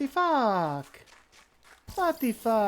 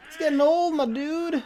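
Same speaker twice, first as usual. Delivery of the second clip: raised, higher call across the map; louder calling out; 8 semitones higher, 6 dB louder than usual. Real, not acted. Calling out to the hiding player, louder and higher. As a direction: call it out loud and high, impatient.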